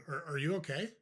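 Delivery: hesitant question with a rising end; puzzled concern. Shown as a demonstration. Coach models replying to an insulting remark, puzzled concern. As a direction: stumble slightly into it, as if something is wrong with them. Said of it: "say it just like I just said it".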